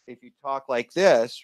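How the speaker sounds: slightly faint, a little off the microphone; poor mic position. Shown as a demonstration. Host showing audience a wrong mic position, slightly off-mic. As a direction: demonstrate talking just off the mic. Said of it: "it's not good".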